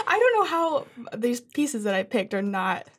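talking through laughter; laughing. Real, not acted. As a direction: laugh while you apologize. Laughs at her own sad pieces.

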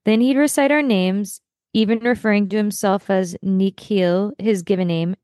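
reading a memoir's last page aloud, steady and sincere. Acted. Podcast host reads the last page to her co-host, sincere and steady. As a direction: read the closing page like a book narrator.

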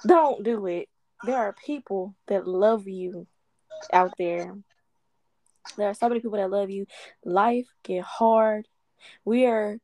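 holding back tears. Real, not acted. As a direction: speak through near-tears to someone in pain. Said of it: "I'm trying not to cry".

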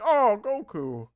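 high, slow mock gasp of recognition; retelling Goku's startled recognition, slow and high; surprised realization. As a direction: act out a sudden dawning "oh". And then he's like.

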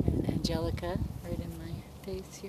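windy action camera. Real, not acted. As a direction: wind roaring over the mic. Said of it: "Sorry about the wind here".

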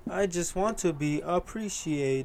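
slow flat monotone. Retold or imitated. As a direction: drag it out in a monotone. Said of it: "monotone voice".

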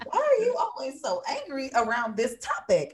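high, drawn-out self-interrogation; mock self-questioning. Acted questioning of herself.

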